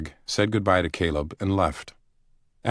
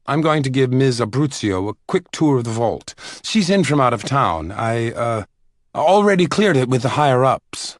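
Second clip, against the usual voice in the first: higher, louder, hurried bluff; nervous librarian voice; 6 semitones higher, 6 dB louder than usual. A narrator's reading. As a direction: cover nervously for the tour. Caleb bluffs to colleague.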